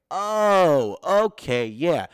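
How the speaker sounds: high, loud "oh, okay" of sudden understanding; a burst of pleased surprise as it clicks; realization. Retold or imitated. Student finally getting the paragraph, delighted realization. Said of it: "And you're rereading it".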